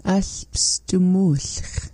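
slow unvoiced whisper. Real, not acted. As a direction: whisper Alpstumulch slowly. Learner whispering repeat.

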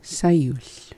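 "Sayuch" said as one piece, no stop after the S; dropped pause. Shown as a demonstration. Learner echoing fluent speakers' form, pause dropped in "Sayuch". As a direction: join the S smoothly to the vowel in "Sayuch". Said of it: "Where they just drop it".

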